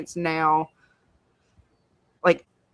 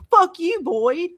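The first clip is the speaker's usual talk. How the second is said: much higher, louder jab at the screen; mock angry yell; 10 semitones higher, 4 dB louder, much slower than usual. Real, not acted. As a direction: snap it at the character, half joking. Yelling at a character.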